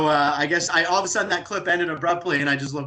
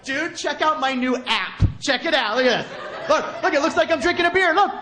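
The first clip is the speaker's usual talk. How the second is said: high, excited iPhone-obsessed friend showing off apps; a friend bragging about his new phone, high and eager; iPhone bro; 9 semitones higher than usual. Retold or imitated. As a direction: gush like a gadget bro. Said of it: "they come up and be like".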